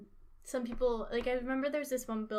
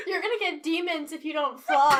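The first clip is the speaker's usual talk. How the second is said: laughing mock dentist; 2 semitones higher, 6 dB louder than usual. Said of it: "your dentist was legit like".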